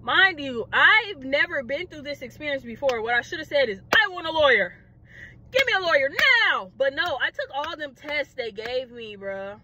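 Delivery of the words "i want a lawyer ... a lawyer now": mock firm demand. What she should have told police, emphatic demand. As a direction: demand it with rising force.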